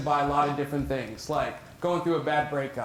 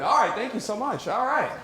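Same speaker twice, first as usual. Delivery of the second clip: put-on big boy voice; 6 semitones higher than usual. Shown as a demonstration. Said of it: "if I use my big boy voice".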